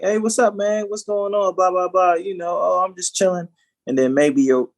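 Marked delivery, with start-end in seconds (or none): 0.0-3.5 lightly raised, easygoing buddy voice; loose, relaxed hello, a little higher; casual colleague greeting. Acted. Acting out code switching with a Black colleague at work, casual. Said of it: "they're black, and you're like".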